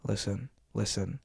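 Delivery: cool, controlled scolding; very calm. Pretend. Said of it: "Very calm".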